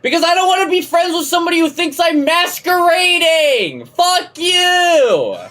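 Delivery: voix très haute, il crie sa colère; furious shout. Real, not acted. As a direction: hurle ta rage contre Korkla. Angry rant escalating to shout.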